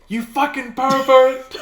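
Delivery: high, loud drawn-out shout; mock furious yell. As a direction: yell it after someone leaving, hammed up. Retold parting shot yelled after rival.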